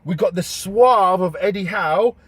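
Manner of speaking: slow, grand pundit build-up; dramatic commentator. Acted. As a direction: announce it like a big fight.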